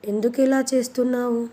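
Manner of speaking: startled husband, a touch of surprise; surprised. Acted. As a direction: ask it taken aback, in light surprise. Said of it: "Deepak ఆశ్చర్యపోతూ".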